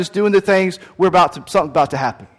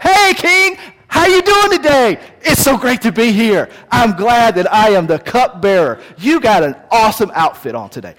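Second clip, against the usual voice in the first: much higher, bright fake enthusiasm; forced cheerful; 5 semitones higher, 4 dB louder than usual. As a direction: gush like a courtier terrified of not smiling. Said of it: "he's like".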